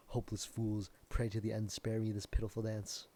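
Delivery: hammed-up doom of a stage tragedian; lightly voiced Shakespearean lament. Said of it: "we were speaking Shakespearean".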